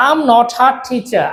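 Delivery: "not a" joined as "no-tha"; linked collocation. Shown as a demonstration. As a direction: link "not a" with a lightly aspirated t. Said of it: "এখানে দুটা collocation". ("not a" একসাথে "নঠা" উচ্চারণ)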